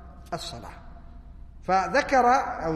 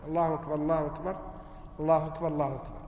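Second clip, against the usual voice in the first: الله أكبر، الله أكبر joined fast in one breath, a little lower; quick joined takbirs; run together as one; 3 semitones lower, 4 dB quieter, faster than usual. Shown as a demonstration. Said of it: "بمثابة لفظ واحد".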